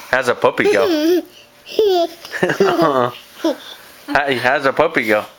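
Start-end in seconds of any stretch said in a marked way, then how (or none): 0.1-3.1 high question through laughter; laughing. Real, not acted. Mother asking toddler puppy sound, laughing high. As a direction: ask while giggling.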